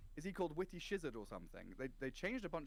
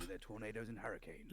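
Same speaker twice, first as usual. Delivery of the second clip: nature documentary; 4 semitones lower than usual. Pretend. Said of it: "That's why you're such a good dungeon master".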